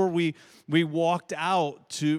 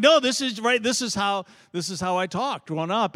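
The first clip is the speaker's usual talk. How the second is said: insisting Southern talk; 2 semitones higher, 5 dB louder than usual. Retold or imitated. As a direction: defend the Southern way of talking. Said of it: "that's just how we talked growing up".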